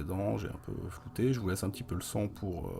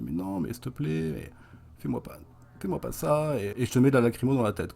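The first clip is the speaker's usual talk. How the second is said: panicked pleading; 5 semitones higher, 6 dB louder than usual. Retold or imitated. Prostitute begging for mercy.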